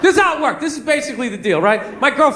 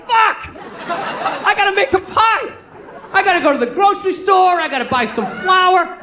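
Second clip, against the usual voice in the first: acted dismay; 6 semitones higher than usual. Remembers forgotten promise, acted dismay.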